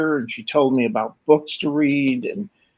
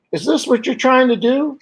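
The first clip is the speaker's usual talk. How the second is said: dad's proud challenge; 11 semitones higher than usual. Retold or imitated. Dad shows off a finished piece.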